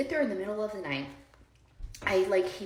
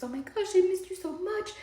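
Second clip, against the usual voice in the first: high, gushy mock-mother squeal, building louder; imitated gushing greeting; 12 semitones higher, 3 dB louder than usual. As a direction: imitate a mother fawning over her son. Mother greets her son with hug.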